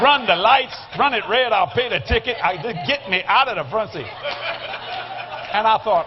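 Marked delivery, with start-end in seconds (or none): 0.0-4.1 comic urgency. Retold or imitated. Urging driver to escape front seat.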